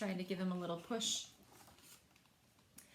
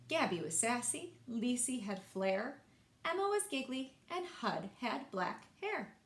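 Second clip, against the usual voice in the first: lilting rhymed storybook read; gentle singsong reading to kids; reading to children. A narrator's reading. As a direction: read it like a bedtime picture book. Reads rhyming picture book aloud.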